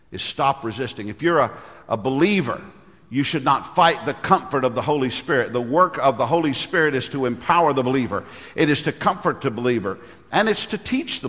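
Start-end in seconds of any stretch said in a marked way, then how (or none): none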